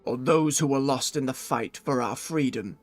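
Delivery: low, gruff orc chieftain voice. Acted. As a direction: read it like an orc warlord. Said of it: "first morning orc voice".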